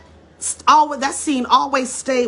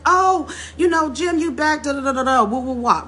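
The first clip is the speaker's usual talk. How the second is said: high, excited welcome voice, voiced lightly; a granddaughter's cheerful hello at the door; granddaughter greeting Jim; 6 semitones higher than usual. Granddaughter greets Jim Brown at the door, excited and high. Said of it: "she's like".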